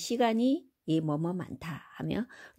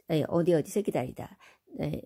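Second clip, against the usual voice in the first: normal talking voice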